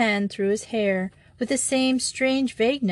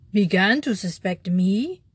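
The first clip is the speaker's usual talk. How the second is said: outlaw echoing the priest's words, pressing harder; increased intensity. Acted. Stunned outlaw presses the priest, with rising intensity. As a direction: lean in, more urgent. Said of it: "repeated the outlaw with increased intensity".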